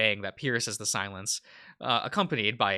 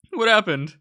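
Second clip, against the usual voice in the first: high loud worried cries; frantic, checking on a friend; panicked; 11 semitones higher, 9 dB louder than usual. Acted. Anxious question.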